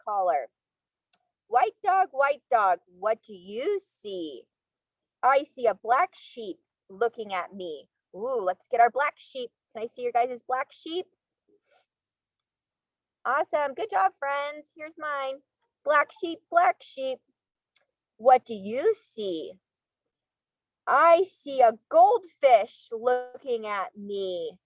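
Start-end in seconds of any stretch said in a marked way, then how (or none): 1.5-7.9 sing-song storybook reading; reading to children. Acted. Reading picture book to class. 15.8-24.6 sing-song storybook reading; reading to children. Acted. Reading picture book to class.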